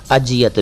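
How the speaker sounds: अजियत said with a hard j; wrong pronunciation. Shown as a demonstration. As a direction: mispronounce अजियत using j instead of z. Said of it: "भी नहीं है". (अजियत को ज वाले ग़लत उच्चारण में)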